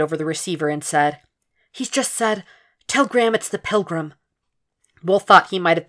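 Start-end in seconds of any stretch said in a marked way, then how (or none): 1.7-4.1 high, urgent secretary; hushed urgent relay; receptionist voice. Acted. Janet relays caller's message.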